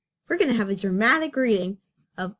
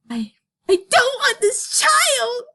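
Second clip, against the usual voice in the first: much higher, slow breathy whispered cry; hammed-up tearful whisper; 14 semitones higher, 5 dB louder than usual. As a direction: whisper it through mock tears. Dramatic reveal.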